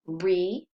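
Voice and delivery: "re-act" said slowly, re then act as two beats; split into syllables. Shown as a demonstration. Teacher splitting "re-act" for students, slow two beats. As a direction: break "re-act" apart slowly. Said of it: "re is saying his name".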